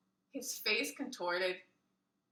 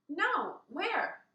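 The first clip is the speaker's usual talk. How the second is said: innocent question; 8 semitones higher than usual. Acted. Child asking innocently.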